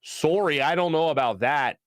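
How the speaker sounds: lightly imitated Canadian accent; a polite mock-Canadian refusal, rounded "Sorry". Lady with the gravy to a customer, Canadian accent. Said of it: "In the most Canadian voice ever".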